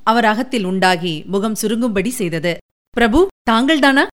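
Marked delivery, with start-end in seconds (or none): 2.9-4.0 higher, emotional questioning; a touch of emotion, pitched up; choked with emotion. A narrator's reading. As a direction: ask in disbelief, mildly overcome. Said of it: "உணர்ச்சியினால் கம்மிய குரலில்".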